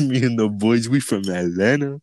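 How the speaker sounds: lightly put-on deep boy voice; fake deep voice. Teasing his pal about the prank call, fake deep voice. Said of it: "trying to make his voice sound deeper".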